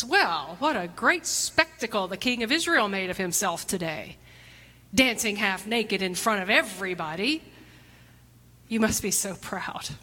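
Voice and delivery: mock-admiring, with exaggerated stress on key words; sarcastic. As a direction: lay on the sarcasm as the scornful wife. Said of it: "the sarcasm in her voice".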